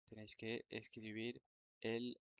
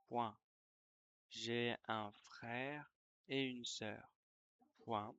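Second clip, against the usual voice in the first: dictation reread. Shown as a demonstration. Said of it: "Je vais relire la dictée".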